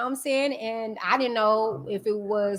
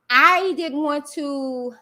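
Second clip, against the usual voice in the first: getting emotional; 3 semitones higher, slower than usual. Real, not acted. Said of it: "I don't wanna get emotional".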